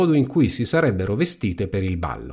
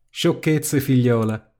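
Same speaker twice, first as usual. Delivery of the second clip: sweet voice; 2 semitones higher, slower than usual. A narrator's reading. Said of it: "disse con voce dolce".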